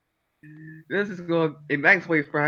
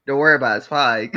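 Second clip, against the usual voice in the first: casual reassurance; 6 dB louder, faster than usual. Retold or imitated. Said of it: "This is what Gurr said".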